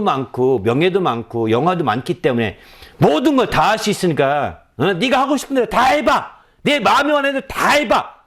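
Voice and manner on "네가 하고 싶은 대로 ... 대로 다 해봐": high-pitched, emphatic go-ahead; acted urging. Solomon giving himself free rein, high emphatic urging. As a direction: egg someone on to indulge freely.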